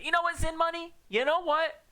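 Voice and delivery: high, loud mock outrage; mock angry. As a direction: play at being furious. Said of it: "I'm gonna get all riled up and angry".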